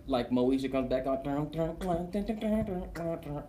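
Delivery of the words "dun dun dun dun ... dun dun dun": hummed TV sting. Retold or imitated. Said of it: "you know where I hear that?".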